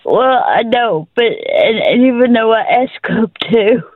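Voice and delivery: halting, struggling through tears; crying. Real, not acted. Caregiver tells host her siblings won't help, crying. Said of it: "I'm crying".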